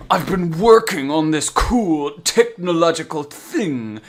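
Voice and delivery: eager, slow cartoon scientist; lightly voiced eager henchman. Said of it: "Alistair Smythe is just like".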